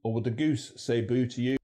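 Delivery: Mancunian accent; Manchester. Shown as a demonstration. Presenter comparing goose vowels, in Mancunian. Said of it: "We also hear this in Manchester".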